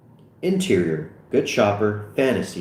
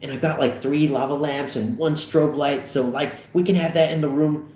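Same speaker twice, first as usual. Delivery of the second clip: higher-pitched eager chatter; enthusiastic; 5 semitones higher than usual. Acted. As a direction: share exciting news with a friend. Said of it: "Fogel, enthusiastically".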